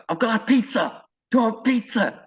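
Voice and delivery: very high, hammed-up mock voice; exaggerated high put-on voice; the speaker's put-on voice. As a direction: offer food in a silly high-pitched voice. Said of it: "like, put on voice".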